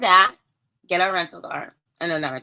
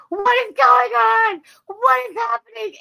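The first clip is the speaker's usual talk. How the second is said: high, loud, frantic mother's voice; a worried mother shrieking down the phone; panicked mom; 8 dB louder, slower than usual. Retold or imitated. Mother on the phone, hearing her daughter scream, high frantic panic. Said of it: "and she is like".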